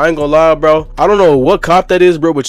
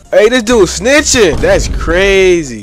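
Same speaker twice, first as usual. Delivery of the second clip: incredulous callout; 5 semitones higher, slower than usual. Real, not acted. Calls out the snitch.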